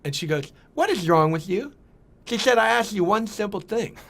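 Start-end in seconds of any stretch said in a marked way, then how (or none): 0.8-1.7 higher-pitched mock speech impediment; Renee. Restaurant owner scolding new manager, imitated speech impediment. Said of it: "had a horrible speech impediment". 2.6-4.0 high, scolding mock speech impediment; Renee. Owner reprimands her new manager, high voice with imitated impediment. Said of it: "had a horrible speech impediment".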